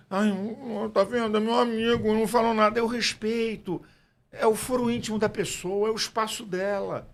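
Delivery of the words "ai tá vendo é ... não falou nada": high-pitched mock whining about a friend; mock complaint. Pastor imitating someone let down by friends, mock complaining. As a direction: play a hurt grumbler, pitched up. Mimics complaint he says he lacks.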